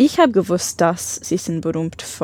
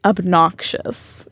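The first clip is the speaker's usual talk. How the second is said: slow careful repeat; much slower than usual. Shown as a demonstration.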